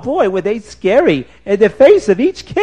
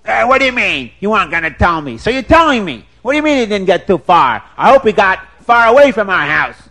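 a hint of a gruff brute, louder, incredulous; angry husband; 3 semitones higher, 5 dB louder, faster than usual. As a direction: bluster like a brute about the intruder. Husband Schwarzer Wolf.

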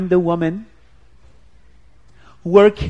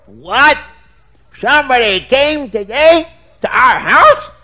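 shocked husband; 7 semitones higher, 6 dB louder than usual. Acted. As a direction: throw the news back in disbelief.

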